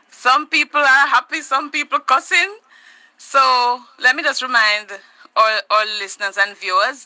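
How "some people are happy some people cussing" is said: breathless after dancing; out of breath. Real, not acted. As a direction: talk while still catching breath. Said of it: "I'm almost out of breath".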